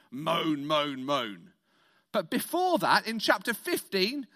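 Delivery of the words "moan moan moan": mock moan. Mock moaning sound.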